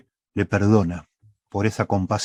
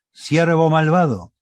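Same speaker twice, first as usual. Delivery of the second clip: "Siervo malvado" slow and higher, a mild stern reproach; stern rebuke; 6 semitones higher, slower than usual. Acted. King scolding the unforgiving servant, mildly stern and slow. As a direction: let the king scold, deliberate. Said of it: "el rey, le dijo".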